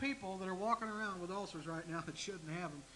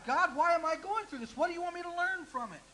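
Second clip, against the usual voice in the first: louder, higher pleading prayer; a pleading prayer, pitched up and loud; praying aloud; 8 semitones higher, 6 dB louder than usual. Retold or imitated. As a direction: cry out the question to God. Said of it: "ask God".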